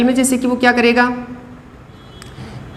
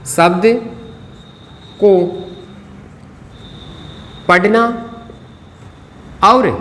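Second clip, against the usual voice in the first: isolated words with long gaps; writing-pace dictation. Real, not acted. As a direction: dictate word by word as you write. Writes the phrase while saying it.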